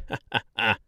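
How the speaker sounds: merry mayor chuckle; jolly laugh. Acted. Mayor laughs as children scamper, jolly laugh. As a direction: laugh it off warmly. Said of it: "He laughed again".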